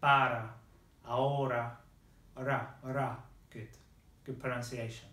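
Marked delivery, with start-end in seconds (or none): 0.0-1.8 "para, ahora" with each R tapped like a D; word by word "para, ahora", showing the tapped R; Spanish tapped R. Shown as a demonstration. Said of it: "you hear that sound in". 2.4-3.2 "ra, ra" as isolated tapped syllables; Spanish tapped R. Shown as a demonstration. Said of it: "So you hear that sound".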